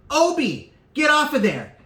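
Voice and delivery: mock mom yelling, high; hammed-up call to the kid. Mother calling her kid off the register, mock yell.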